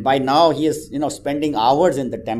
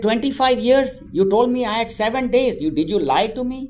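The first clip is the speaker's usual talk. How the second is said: shocked disbelief; 12 semitones higher, 5 dB louder than usual. Acted. Man shocked at the saint's answer.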